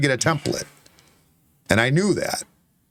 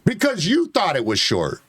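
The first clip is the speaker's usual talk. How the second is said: argument climbing in pitch; real heated self-defense; getting loud; 5 semitones higher than usual. Real, not acted. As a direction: build into an exasperated raised voice. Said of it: "Why are you getting so loud?".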